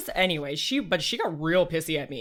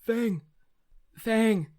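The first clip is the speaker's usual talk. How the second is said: building call; 5 semitones higher, much slower than usual. Acted. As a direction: call her name, more urgent each time. Calling Fang louder each time.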